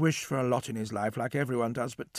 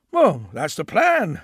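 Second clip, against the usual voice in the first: cheerful; 8 dB louder, slower than usual. Acted. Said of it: "he said cheerfully".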